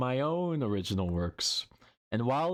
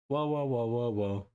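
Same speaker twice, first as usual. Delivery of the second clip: put-on baby crying. Shown as a demonstration. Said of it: "How was that?".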